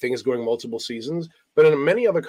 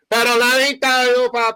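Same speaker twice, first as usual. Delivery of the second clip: ultra Latina; 10 semitones higher, 7 dB louder than usual. Retold or imitated. Aging Latina woman after forty-five, exaggerated loud Latina accent. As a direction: burst into an over-the-top Latina voice. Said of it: "somehow become ultra Latina after the age of forty-five".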